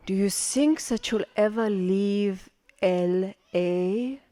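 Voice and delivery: mother's question, slowly and deliberately; a weighty, probing question. Retold or imitated. Mother asks, slow, put-on.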